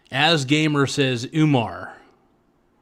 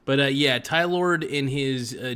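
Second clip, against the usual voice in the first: ordinary talk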